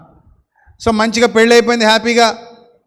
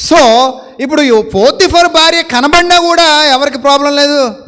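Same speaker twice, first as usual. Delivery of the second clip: raised, slow and louder emphatic declaration; emphatic preaching; 6 semitones higher, 5 dB louder, slower than usual. Real, not acted. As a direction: drive the point home to the congregation. (బిగ్గరగా నొక్కి చెప్పడం)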